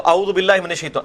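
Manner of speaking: quick careless اعوذ باللہ, no عین sound; mock how people rush it; جلدی میں غلط; rushed careless recitation. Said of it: "لوگ تو ایسے کہتے ہیں".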